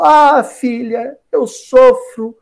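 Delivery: slow, drawn-out mock suffering; milk the woe slowly, as a scheming mother would; craftily plaintive. Herodias manipulates her daughter against João Batista, hammed-up craftily plaintive. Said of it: "muito ardilosamente, falou".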